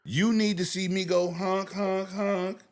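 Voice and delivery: high goofy honking impression; silly clown. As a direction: squeak the honks like a toy horn.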